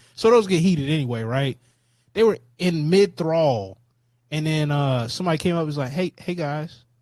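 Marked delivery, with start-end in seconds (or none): 5.9-6.8 put-on very meek manner, lower and quieter. Retelling how someone came on stage and spoke up: imitating someone speaking very meekly. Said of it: "very meekly".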